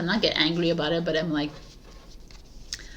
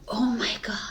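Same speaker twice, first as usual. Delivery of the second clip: whispered oh my God; 4 semitones higher than usual. Retold or imitated. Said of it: "I was like".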